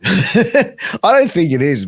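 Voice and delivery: amused, laughing reply. Real, not acted. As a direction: chuckle as you agree. Laughing agreement that wrestling's real.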